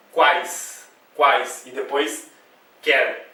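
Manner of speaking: quais in one burst, quer apart; separate syllables. Shown as a demonstration. Teacher showing the two syllables, quais and quer kept apart. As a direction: give quais and quer each its own falling burst. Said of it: "sair tudo de uma vez só".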